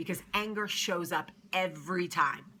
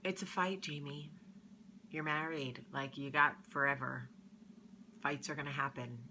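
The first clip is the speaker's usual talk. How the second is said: wise inner voice; 4 dB quieter than usual. Retold or imitated. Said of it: "smarter voice".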